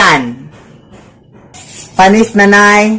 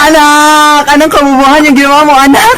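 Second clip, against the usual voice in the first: laughing scold; 6 semitones higher than usual. Acted.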